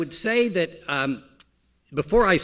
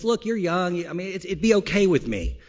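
lightly voiced wife, pitched up; a hint of a coaxing wife; wife's voice; 4 semitones higher than usual. Wife to husband on the golf course, lightly voiced and higher. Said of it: "And she says".

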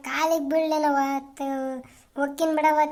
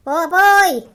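long, high, loud call across a field; 4 semitones higher, 12 dB louder than usual. Acted. Son calls out to his father in the field, loud and high. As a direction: hail him from far away.

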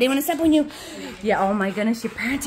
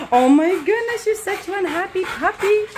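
higher sing-song voice for a puppy; pet talk; 6 semitones higher than usual. Real, not acted. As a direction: coo at the puppy.

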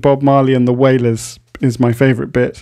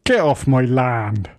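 grumpy farmer; slower than usual. Acted. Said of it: "I'll be Farmer Gerbil".

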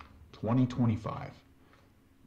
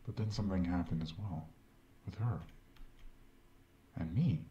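game character. Acted. In-game doctor voice.

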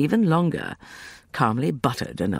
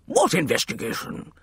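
higher, indignant demand; 6 semitones higher than usual. A narrator's reading. Emerson challenges his wife's investigation, demanding. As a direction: demand it in gruff disbelief. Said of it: "Emerson demanded".

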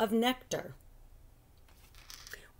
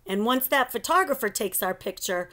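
excited boast; 5 semitones higher than usual. Acted. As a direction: voice soaring high on famous. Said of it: "Carlos said".

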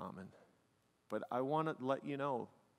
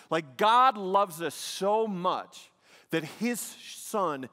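louder, slow preaching that drives each phrase home; full-force preaching; 5 semitones higher, 8 dB louder than usual. Acted. Pastor preaching the cross to the congregation, loud and slow.

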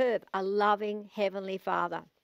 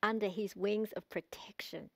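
hushed; 5 dB quieter than usual. Acted. Preacher hushes on comforting phrase.

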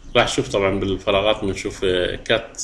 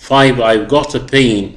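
slow, louder reading of the example; teacher's model sentence; slow dictation; 2 semitones higher, 5 dB louder, much slower than usual. Shown as a demonstration. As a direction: read it slowly for students to repeat. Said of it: "reads example sentence to class".

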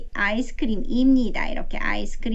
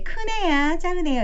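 teacher answer; 6 semitones higher than usual. Retold or imitated. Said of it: "이렇게 말해 줍니다".

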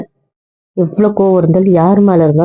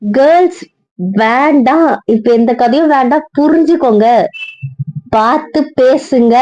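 pointed warning; 6 semitones higher than usual. Acted. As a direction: warn the girls off, pitch raised. Warning friends not to tell.

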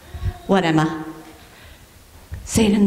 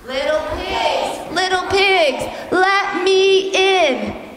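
wolf call, rising; 4 semitones higher, slower than usual. Shown as a demonstration. Leading kids in the wolf's call, rising to a shout. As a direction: call out like the big bad wolf.

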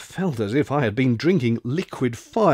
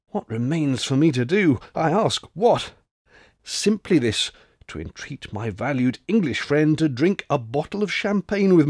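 grand, mock-solemn veteran offering a toast; old French soldier. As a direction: play the old grenadier inviting his friend to drink. Old soldier proposes champagne toast.

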